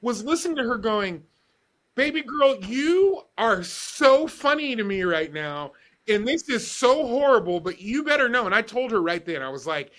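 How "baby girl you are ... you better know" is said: lightly imitated Southern country accent; a hint of the country nurse's Southern accent; thick country accent. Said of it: "with such this thick accent".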